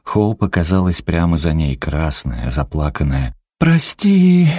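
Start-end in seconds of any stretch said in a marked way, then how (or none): 3.6-4.5 high, loud wailing whimper; whimpering apology. A narrator's reading. Crying daughter begs her mother's forgiveness, wailing high. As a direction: wail it out in tears. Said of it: "захныкала Хоуп".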